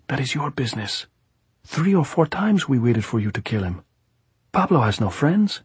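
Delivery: high-pitched, pressing gypsy voice; insistent gypsy. A narrator's reading. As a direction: press the point as the gypsy plotter.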